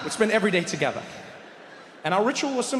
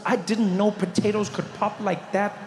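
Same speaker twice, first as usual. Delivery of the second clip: building amazement; 4 semitones higher, slower than usual. Acted. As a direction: savour each phrase, climbing in pitch and volume. Building rapture at the first bite.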